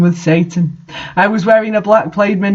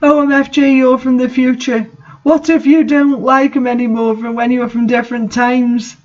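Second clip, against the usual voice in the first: excited; 6 semitones higher than usual. A narrator's reading. Satan's excited question.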